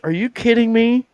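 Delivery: very high-pitched incredulous question; retold disbelief. Telling friends she had nothing underneath, incredulous. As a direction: act out scandalized amazement. Recounts disbelief at bare vest.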